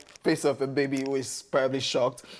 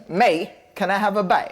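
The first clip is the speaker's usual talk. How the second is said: mock English accent; loosely imitated British accent; 2 semitones higher, 3 dB louder than usual. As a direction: beg politely in a put-on English accent. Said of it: "The accent".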